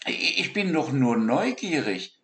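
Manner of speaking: a small animal grumbling to himself; lightly voiced young dormouse. A narrator's reading. Siggi character voice.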